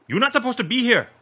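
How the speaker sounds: high, loud squealing shout; rodent-like squeal. A narrator's reading. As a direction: screech it like a cornered rat. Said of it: "the man shouts with an almost rodent-like squeal".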